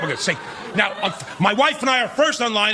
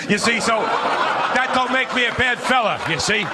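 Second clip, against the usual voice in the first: tough guy voice; slower than usual. Acted. Mocking bad-fella voice.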